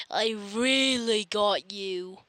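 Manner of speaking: slow, breathy wind-down after laughter; laughing it off. Real, not acted. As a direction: catch your breath still amused.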